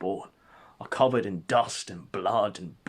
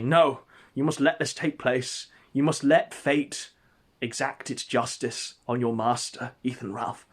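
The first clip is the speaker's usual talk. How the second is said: solemn command; 2 semitones higher, 4 dB louder than usual. Acted. Holding Gator back solemnly.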